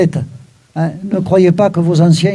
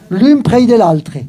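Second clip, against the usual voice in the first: slowly recited, a touch higher, in Occitan; slow Occitan recital; 3 semitones higher, slower than usual. Shown as a demonstration. Storyteller reciting the Occitan line to the audience, slowly. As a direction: savour each Occitan word, slowly. Reading Occitan text, then translating.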